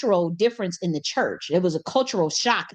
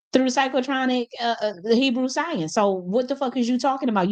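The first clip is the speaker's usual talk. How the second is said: going off; 4 semitones higher than usual. Retold or imitated. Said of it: "He was going off on that lady".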